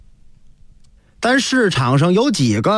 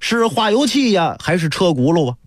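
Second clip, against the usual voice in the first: teasing, joking. Acted. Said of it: "片儿白拿他一开玩笑".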